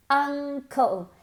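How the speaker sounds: Uncle with an open, dropped-jaw uh. Shown as a demonstration. Teacher contrasts uncle with ankle. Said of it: "Mucho más nasal".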